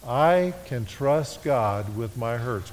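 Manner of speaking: said slowly along with the congregation; slow congregational repeat. Shown as a demonstration. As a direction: lead the room through it slowly. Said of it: "Would you read that with me?".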